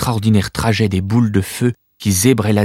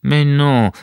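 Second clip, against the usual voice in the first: reassuring; 5 semitones higher, 3 dB louder than usual. Acted. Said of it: "tenta de la rassurer Corvus".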